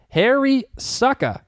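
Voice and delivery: savoring a name. Shown as a demonstration. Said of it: "God, I love that name".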